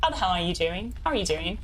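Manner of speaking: lightly attempted British greeting; bad British accent. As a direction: try a half-hearted, badly faked British accent. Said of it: "we're a bad British accent now".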